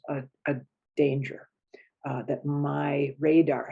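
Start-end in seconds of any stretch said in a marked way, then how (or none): 0.1-1.5 unvoiced whisper on "danger". Real, not acted. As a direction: hush the word like a warning. Lowered voice for threat.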